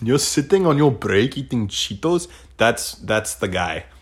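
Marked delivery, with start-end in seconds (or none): 0.0-2.3 put-on Indian accent. Retelling a coworker finding someone on break: imitating an indian coworker's accent. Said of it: "I've never heard an Indian guy say the word Cheetos".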